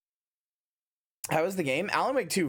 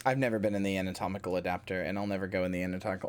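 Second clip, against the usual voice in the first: lower, faster mother voice; 7 semitones lower, 5 dB quieter, faster than usual. Acted. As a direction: answer firmly as the mother. Mother answers bat, low.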